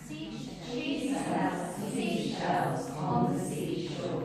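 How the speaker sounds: slow, over-shaped tongue twister, each sound pushed out; slow, exaggerated articulation. Shown as a demonstration. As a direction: chew every consonant slowly to wake up the brain. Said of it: "Waking up your brain as well".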